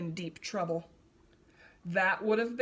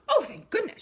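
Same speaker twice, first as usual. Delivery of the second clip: high, louder cry of relief; relieved cry; 9 semitones higher, 5 dB louder, faster than usual. A narrator's reading. Hornbill finding her egg whole, relieved high cry. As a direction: gasp it out, the egg is safe. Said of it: "she cried".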